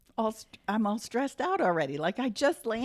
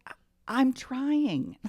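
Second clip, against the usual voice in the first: strained dad; 6 semitones higher, much slower than usual. Retold or imitated. Dad's strained reply retold.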